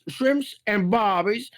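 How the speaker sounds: slow attempt at an Aussie voice; faltering Aussie accent. Shown as a demonstration. Performer hunts for his lost voice, faltering Aussie accent. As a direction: feel slowly for the Aussie accent. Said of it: "I lost the damn voice".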